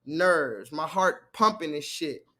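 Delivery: catching breath after hype; calming down. Real, not acted. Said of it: "Let me calm down".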